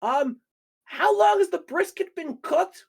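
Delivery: mock prissy question. Hero asks bartender about the brisket, high prim drawl. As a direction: ask it like a fussy snob. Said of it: "he kinda just goes".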